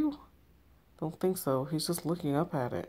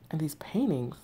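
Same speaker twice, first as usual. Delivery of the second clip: eerie whisper. Acted. Creepy farmhouse interior.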